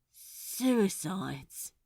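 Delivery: flat. A narrator's reading. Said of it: "he said flatly".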